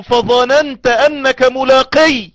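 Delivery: voice of God questioning. Retold or imitated. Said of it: "ويقول له".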